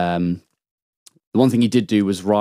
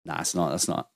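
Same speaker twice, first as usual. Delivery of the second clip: soft, lower, talking to yourself; quiet disbelief; 4 semitones lower, 10 dB quieter than usual. Retold or imitated. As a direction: doubt your own eyes under your breath. Disbelief to himself on spotting someone.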